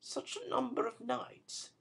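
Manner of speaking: soft, high and tender; a woman's tender reproach. Acted. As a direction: say it gently, hurt. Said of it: "a touch of woman's tenderness".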